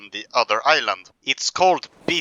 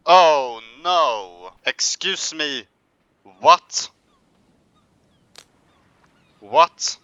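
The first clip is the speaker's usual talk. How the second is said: startled yelp; 3 dB louder, slower than usual. Acted. Steps on sea star.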